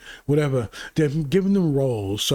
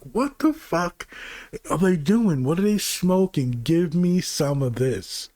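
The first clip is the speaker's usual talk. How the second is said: disbelief. Retold or imitated. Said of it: "And your brain's like".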